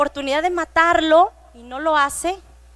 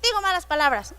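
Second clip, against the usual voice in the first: put-on higher, childlike voice; imitating a child; 6 semitones higher than usual. Child answering the teacher about getting angry, childlike voice. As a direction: play a little kid owning up. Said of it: "varios empezaron a contestar".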